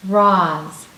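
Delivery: "Roz" said clearly as a sound model; clear sound demo. Shown as a demonstration. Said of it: "What sound was the same".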